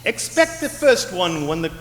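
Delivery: raspy ghost voice. Acted. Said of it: "this raspy voice".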